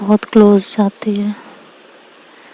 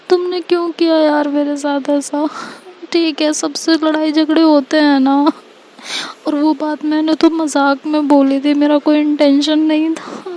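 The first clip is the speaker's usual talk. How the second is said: higher, tearful voice, begging through sobs; tearful pleading; 5 semitones higher than usual. Acted. Ishika begs Tanya never to leave her, tearful and pleading. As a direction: plead like a heartbroken friend in tears. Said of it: "ऐसा बोलती है और बहुत रो रही होती है".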